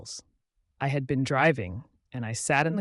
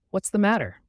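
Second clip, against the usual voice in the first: called out; 7 semitones higher, 5 dB louder than usual. Acted. Calling to limping soldier.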